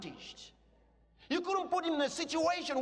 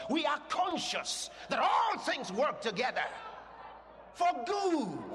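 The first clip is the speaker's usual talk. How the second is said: preaching at full force. Real, not acted. Preaching climax.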